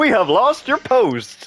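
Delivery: overly cheerful, bright, high automated recorded-message voice. Imagining a call about a lost parcel: overly cheerful automated voice. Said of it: "an automated voice, just overly cheerful".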